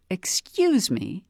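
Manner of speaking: offended. A narrator's reading.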